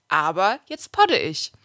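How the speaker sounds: slow, deliberate read of the quote; measured punchline reading; quoted ad line. Retold or imitated. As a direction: set the quote apart, word by word. Reads quoted ad sentence aloud.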